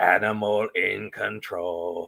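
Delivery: puppet character voice. Recalling a scene from the Muppet movie: Animal voice. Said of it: "and he's like".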